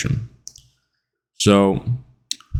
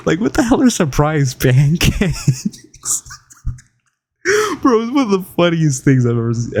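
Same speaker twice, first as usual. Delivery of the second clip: amused; 4 semitones higher than usual. Real, not acted. Amused retelling, still laughing.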